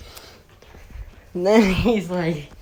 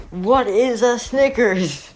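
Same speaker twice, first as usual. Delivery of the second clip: baffled question; 7 semitones higher, 3 dB louder, slower than usual. Retold or imitated. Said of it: "And they ask".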